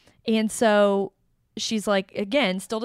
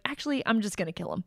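quick, softer deadpan aside; matter of fact; 5 dB quieter, faster than usual. Retold or imitated. Imitating the hero turning round before leaving, matter-of-fact. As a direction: drop it casually, as an afterthought. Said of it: "so matter of fact about it".

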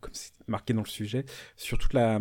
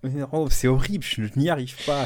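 plus fort, voix tendue et agacée; râle en tirant sur le bouchon; frustré en plein effort; 5 dB louder than usual. Real, not acted. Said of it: "extrêmement frustrant". (frustré, en forçant)

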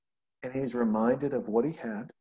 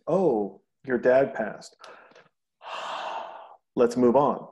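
quick dismissive acknowledgment, a sigh, then louder to move on; brushing it off; 4 dB louder, slower than usual. Shown as a demonstration. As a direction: wave the loss away and change the subject.

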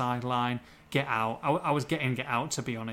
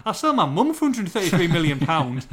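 incredulous joking; 6 dB louder than usual. Real, not acted. Joking escalation of the incredulous answer.

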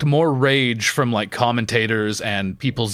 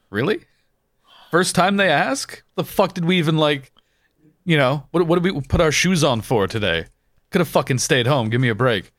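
higher-pitched, mock exasperated protest; incredulous complaint; 5 semitones higher than usual. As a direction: act out disbelief at a crowd giving up. Acts out annoyed reaction to compliance.

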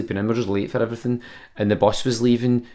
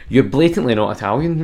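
laughing accusation; 2 semitones higher, 5 dB louder than usual. Retold or imitated. Andy laughing catching them out.

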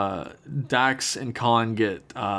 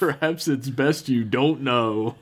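Worf; 2 semitones higher than usual. Retold or imitated.

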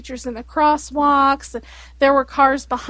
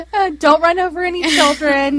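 laughing; 4 dB louder than usual. Real, not acted. Mock lesson with crying laugh.

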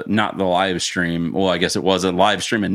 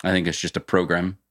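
put-on British accent. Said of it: "I get that you're doing the British accent".

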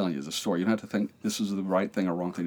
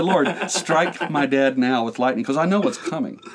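frantic prayer; 4 semitones higher, 5 dB louder than usual. Retold or imitated. Retold frantic prayer to God.

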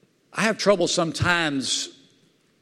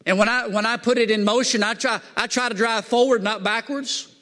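high, animated preacher explaining; animated preaching; 7 semitones higher than usual. Real, not acted. Preacher explaining the parable to the congregation, animated preaching. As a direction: keep the pitch up as you explain.

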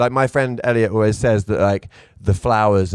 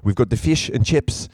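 South African accent. Shown as a demonstration. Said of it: "with South African accent".

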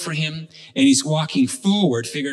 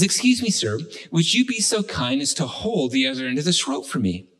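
lightly voiced courteous stranger; mild, polite storytelling voice; nice, polite request. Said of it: "he asks in such a nice way".

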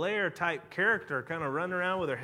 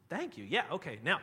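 quieter, dismissive retold thanks; mock polite irritation; 2 semitones lower, 4 dB quieter than usual. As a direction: brush off a nagging follower, softly. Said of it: "was just really irritated".

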